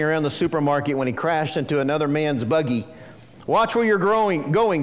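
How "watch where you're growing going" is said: mock snarl. Grumpy shopper snapping at the man who hit his cart, mock snarl. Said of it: "snarled the other man".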